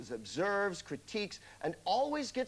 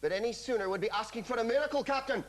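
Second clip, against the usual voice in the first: fast, lilting Scottish ship engineer voice; a Scottish engineer pleading with his captain in a hurry; Scottish accent; 5 semitones higher, faster than usual. Acted. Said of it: "That was my Scottish accent".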